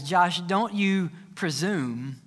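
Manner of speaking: lightly voiced fatherly God. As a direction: speak down calmly as God correcting. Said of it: "And God says".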